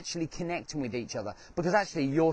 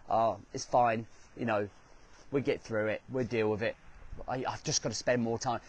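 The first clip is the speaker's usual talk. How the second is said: lower, understated brush-off; mock dismissive; 4 semitones lower, 4 dB quieter than usual. People who don't think it's real, brushing it off dismissively. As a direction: lightly imitate someone shrugging off a problem.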